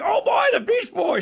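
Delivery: very high, thrilled, excited exclamation. Retelling how she reacted before a band's concert: imitating someone excited. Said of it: "She was excited".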